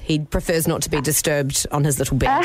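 lightly posh fussy owner; hint of a bougie pet owner. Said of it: "put on a bit of a bougie voice".

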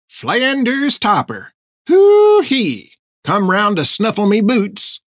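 put-on high, cackling croak of a filthy old hermit. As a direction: croak it out, gleeful and cracked. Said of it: "he croaked at them".

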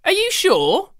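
yelled. Acted. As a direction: call back over the sewing machine. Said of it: "Grandma yelled over the whir".

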